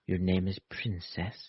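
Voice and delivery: slow, soft posh voice. Pretend. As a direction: drawl it out all posh. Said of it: "That's my kinda posh voice".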